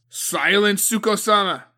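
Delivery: loud, high bark; thundering command. A narrator's reading. Old general Agatoki silences Suko, thundering. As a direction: silence her at once. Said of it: "Agatoki thundered".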